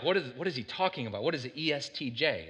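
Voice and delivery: low-key mock confusion; confused aside. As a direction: quietly imitate someone who is lost. Voices confused listeners' aside.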